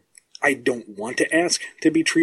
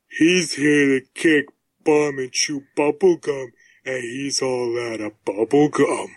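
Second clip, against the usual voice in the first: Duke Nukem impression. Shown as a demonstration. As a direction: growl it like an action hero. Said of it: "Smalls the Cat is closer to Duke Nukem".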